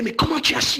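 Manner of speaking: high, amused amazement; laughing surprise. Pretend. The man laughs at being recognised, high amused surprise. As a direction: ask it as if caught out, chuckling. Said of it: "Et puis, il va rigoler".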